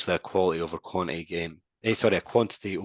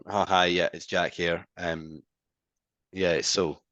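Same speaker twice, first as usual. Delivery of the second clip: low-energy greeting; slower than usual. Shown as a demonstration. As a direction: sound unenthused and unsure. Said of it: "really outgoing and really quite happy".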